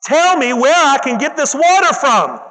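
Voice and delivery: a touch of excited pleading. Acted. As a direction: she can't wait to get it. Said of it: "She gets excited and says".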